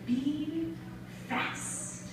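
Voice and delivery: soft drop to near whisper; quiet slam refrain; hushed poetic command. Acted. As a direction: let the last word fade to breath. Poem command, later repeated louder.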